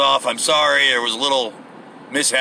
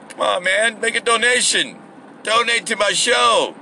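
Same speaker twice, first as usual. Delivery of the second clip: higher-pitched pleading, hammed up; mock begging; 5 semitones higher than usual. Podcaster asking listeners for donations, mock begging. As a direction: plead for it, stretching the last appeal. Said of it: "more when I'm begging".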